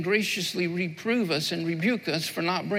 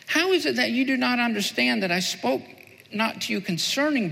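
raised, declaiming Bible reading; scripture reading. Acted. Pastor reading Matthew to the congregation, raised and declaiming. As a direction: read the passage out like a proclamation.

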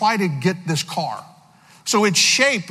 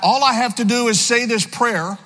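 incredulous question; 5 semitones higher than usual. Retold or imitated. Young man questions his roommate, amazed. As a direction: ask it like it's too good to be true.

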